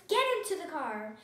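loud, firm storybook order; shouted. A narrator's reading. Mister Ruggers ordering Amelia Bedelia into the car, shouted. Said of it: "shouted Mister Ruggers".

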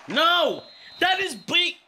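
high, loud cry of dismay; real stunned protest; shocked outcry. Real, not acted. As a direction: yelp at the screen in disbelief. Reacting to a bad play.

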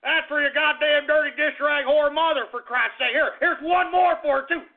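angry daddy. Pretend. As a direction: threaten the boy like an irate daddy. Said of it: "if I was your daddy".

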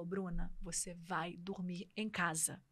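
quiet, measured telling-off from a friend; firm instruction. Retold or imitated. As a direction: lay it down softly, word by word at first. Quotes friend's firm order. (ordem firme, dita baixo e pausada)

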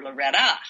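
Loretta with the weight on the final "ta"; stress on last syllable. Shown as a demonstration. Showing another way to say the name, last syllable of "Loretta" stressed. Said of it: "might emphasize a difference".

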